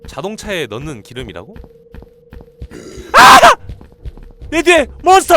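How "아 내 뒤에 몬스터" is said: very high, loud scream; terrified scream. Real, not acted. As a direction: scream as it grabs you. Monster right behind.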